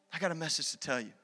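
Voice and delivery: soft, fast repeat of the line; quiet quick echo. Acted. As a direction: hush it and hurry it. Repeated softly.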